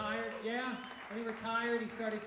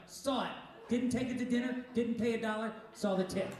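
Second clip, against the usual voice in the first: gleeful; 2 semitones higher, 6 dB louder than usual. Retold or imitated. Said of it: "we're like".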